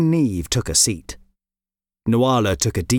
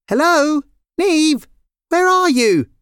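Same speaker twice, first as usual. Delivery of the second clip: high, raised call; 4 dB louder than usual. Acted. Lyra calls to her sister inside the coop, calling out. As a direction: call out for someone out of sight.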